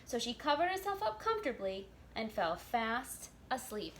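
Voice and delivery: put-on lively read-aloud for children; storybook narration. A narrator's reading. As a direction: tell the tale to little listeners.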